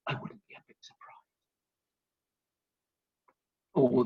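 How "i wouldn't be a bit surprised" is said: whispered aside; sly whispered tag; hushed punchline. Acted. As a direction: drop to a whisper for the joke.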